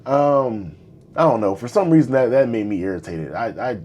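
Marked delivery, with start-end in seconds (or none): 3.3-3.8 hiccups. Real, not acted. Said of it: "I got hiccups".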